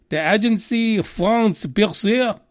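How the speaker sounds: slow, hammed-up French accent on Agence France Presse. Shown as a demonstration. Vlogger naming a French news agency, slow mock French accent. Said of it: "so I've gotta say with the accent".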